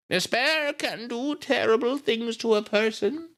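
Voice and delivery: put-on high, slow old-lady voice. A narrator's reading. Miss Miller questioning grieving Nita, slow old lady. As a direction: draw it out as a genteel old woman. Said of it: "she's an old lady".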